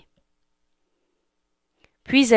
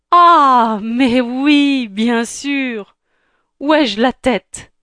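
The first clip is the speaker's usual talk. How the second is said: fairy godmother; 5 semitones higher, 5 dB louder, slower than usual. Acted.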